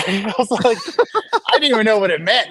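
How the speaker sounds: laughing. Real, not acted. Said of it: "laughing while retelling".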